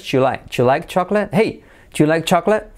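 "Do you" said as a single "ju" before "like chocolate"; brisk, linked native question; contracted. Shown as a demonstration. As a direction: fire off "Ju like CHAK-let". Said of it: "Do you se convierte en you".

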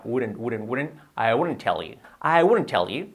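"wouldn't" modelled repeatedly, no L; careful contraction. Shown as a demonstration. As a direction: drill "wouldn't" as one linked word, "wooden". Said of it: "Cuidado la pronunciación".

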